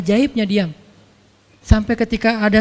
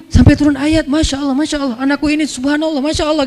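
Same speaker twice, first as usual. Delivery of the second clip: amazed father; 5 semitones higher than usual. Acted. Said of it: "Umar makin bingung".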